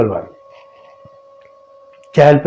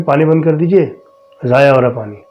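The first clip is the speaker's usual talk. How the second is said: a mild raised call; calls up again, a bit more insistent; calling louder; faster than usual. Retold or imitated. Husband calls up to his wife to turn off the water, mildly raised call. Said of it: "پھر میں نے زور سے کہا".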